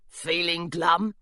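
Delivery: slow, mopey little gargoyle; glum gargoyle. Acted. Gargoyle telling Jasper what they do, slow and mopey. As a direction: drag the words out, bored and sulky.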